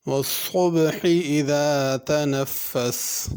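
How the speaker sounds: slow chanted recitation; a light recited line; Quran recitation. Shown as a demonstration. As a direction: stretch each syllable as in tilawat. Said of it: "teacher recites verse to model tajweed".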